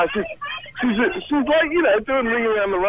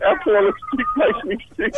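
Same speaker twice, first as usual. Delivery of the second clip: quoting her. Retold or imitated. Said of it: "She said".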